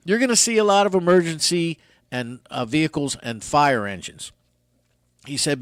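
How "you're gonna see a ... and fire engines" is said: a hint of a calm airline captain; lightly voiced cockpit announcement; pilot voice. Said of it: "He's talking in that pilot voice".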